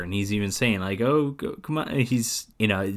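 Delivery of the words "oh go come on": lightly put-on higher voice, mocking; mocking Sally voice. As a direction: lightly mimic her coaxing in a raised voice. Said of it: "he's doing a Sally voice".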